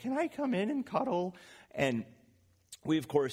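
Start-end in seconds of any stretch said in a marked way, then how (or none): 0.0-1.3 put-on tiny, very high little child's voice. Retelling his kids knocking on the bedroom door every morning, small child's voice. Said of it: "you hear a little voice say".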